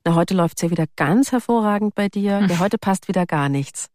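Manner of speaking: dry, smiling, mildly ironic remark; understated ironic jab at a complaining colleague; dry ironic smile. Retold or imitated. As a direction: tease her gently with a smile in the voice. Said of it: "so ganz trocken und lächelnd, bisschen ironisch".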